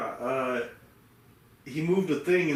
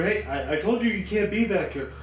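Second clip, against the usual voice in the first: higher, louder mock outburst; retold angry yell; 7 semitones higher, 4 dB louder than usual. Retelling the store guy yelling at Jaden, mock furious. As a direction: act out the furious clerk shouting.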